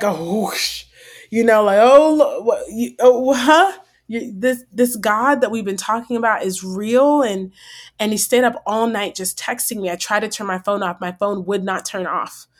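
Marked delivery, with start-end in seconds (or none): 1.8-7.2 stunned, higher and louder; sputtering in disbelief; amazed. Retold or imitated. Retold amazed realization.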